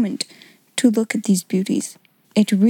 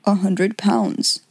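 succinct remark; 2 semitones lower, much slower than usual. Acted. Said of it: "remarked succinctly".

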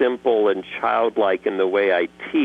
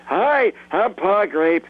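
higher, slow Brooklyn-accented Pa Grape; 9 semitones higher, slower than usual. Shown as a demonstration. Voice actor demoing Pa Grape's Brooklyn accent. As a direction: introduce yourself like a Brooklyn grape. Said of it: "he's got a Brooklyn accent".

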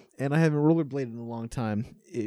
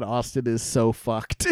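slow words broken by laughter, retelling a friend's hysterics; laughing while quoting; 4 semitones lower, much slower than usual. Retold or imitated. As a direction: laugh through it the way she did. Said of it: "she just started laughing, like, hysterically".

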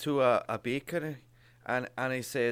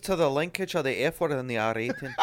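reading aloud. Shown as a demonstration. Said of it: "should we do read".

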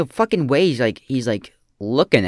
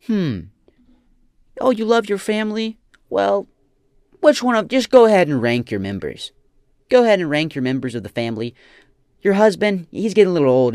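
smug, taunting interviewer parody, pitched up; mock Gary Vee; 5 dB louder than usual. Commentator mocking the guru, taunting and pitched up. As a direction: needle her like a smug guru.

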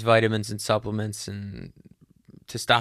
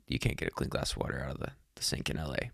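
muttered aside; 8 semitones lower, 11 dB quieter, faster than usual. Real, not acted. Quiet aside about LA water.

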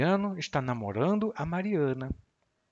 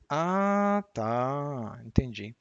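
a touch of irony in Ah, tá; dry ironic Ah, tá, entendi; much slower than usual. Shown as a demonstration. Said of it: "um pouco irônica essa expressão".

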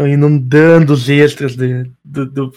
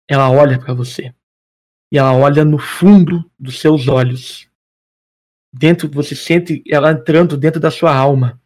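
game master narration. Acted. GM narrates eerie scene.

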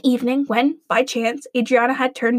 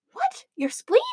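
alarmed demand. Acted. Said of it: "demanded Adriana".

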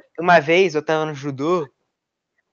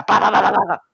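clacking sounds. Shown as a demonstration. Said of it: "Aí você fica".

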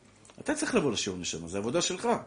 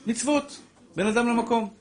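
high, loud laughing outburst; laughing exclamation; 10 semitones higher, 6 dB louder than usual. Real, not acted. Rabbi pointing out where people stop, laughing loudly. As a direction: burst out with a laugh.

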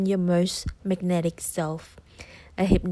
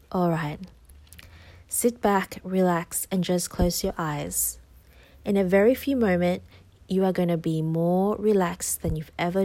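hypnosis voice. Acted. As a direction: soothe the listener into trance. Guided hypnosis begins.

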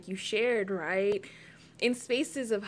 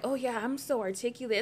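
higher, brisk pleased agreement; naively flattered; 4 semitones higher, faster than usual. Retold or imitated. Recalling a first reaction to a supposed compliment, naively flattered. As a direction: play someone taking the praise at face value. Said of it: "at first I was like".

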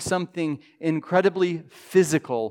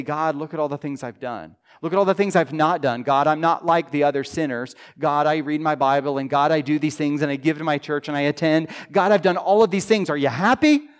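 smug self-righteous prayer; faster than usual. Retold or imitated.

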